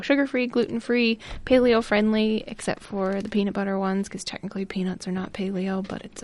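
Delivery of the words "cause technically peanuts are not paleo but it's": whispered aside. Real, not acted. Aside about peanuts.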